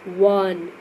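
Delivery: वन said on its own with a clear opening w sound; demonstrated pronunciation. Shown as a demonstration. Teacher shows pupils the W sound, वन pronounced clearly. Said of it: "जब वन को आप pronounce करते हैं".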